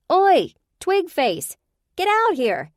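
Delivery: high slow taunting yell; shouting. Acted. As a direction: call it out of hiding. Yelling into the crawl space.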